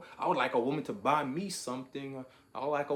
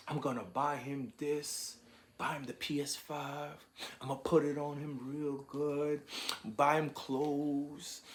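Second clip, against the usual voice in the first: a light imitation of a woman spoiling her man; imitating a devoted woman. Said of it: "was to speak like".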